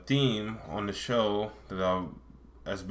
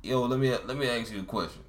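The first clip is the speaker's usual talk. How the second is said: half-hearted Baltimore cop imitation; shaky attempt at mock Baltimore talk; attempted Baltimore accent; 3 semitones higher than usual. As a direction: try a Baltimore accent and give up. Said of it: "I can't do the white guys".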